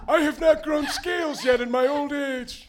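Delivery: loud, high offended shout; indignant old wizard. Acted. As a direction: deny it with outraged pride. Crandon indignant denial.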